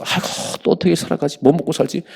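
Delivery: high, fretful mock lament; high mock whining sigh over food; worried whiner. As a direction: imitate a fretting believer, pitched high. Mocking worried believers' lament.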